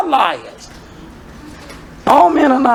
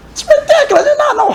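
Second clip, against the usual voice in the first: exclaiming high. Real, not acted. Preacher rebukes the congregation.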